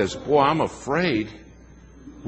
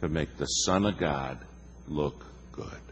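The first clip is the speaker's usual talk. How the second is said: hushed, falling to a near whisper on look good; muttering a rebuke to himself; quiet inner thought; 2 semitones lower, 7 dB quieter than usual. Retold or imitated. Preacher retelling his own private thought, quietly. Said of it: "I thought".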